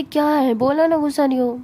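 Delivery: loud annoyed denial to a nagging friend; irritated snap. Acted. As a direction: snap back, fed up with being asked. Friend annoyed by repeated questions.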